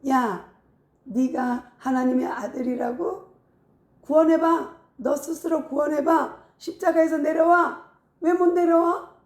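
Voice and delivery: scornful challenge, building in pitch; mocking. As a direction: taunt him, pushing the pitch up. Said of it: "그들이 조롱하면서".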